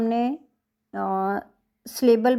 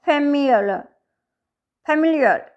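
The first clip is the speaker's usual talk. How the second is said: "फेमिलियर" as a teacher's model word, stress on the second syllable; 3 semitones higher, 3 dB louder than usual. Shown as a demonstration. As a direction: say "फेमिलियर" twice, each falling after the stress. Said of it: "second के ऊपर stress है". ("फेमिलियर" के दूसरे syllable पर ज़ोर)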